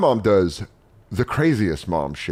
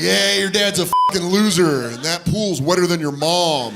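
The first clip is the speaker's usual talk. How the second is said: higher-pitched jeering trash talk; mock taunt; 6 semitones higher than usual. Stepdad trash-talks a kid at the pool, mock taunt. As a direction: taunt like a heckling rival, lightly put on.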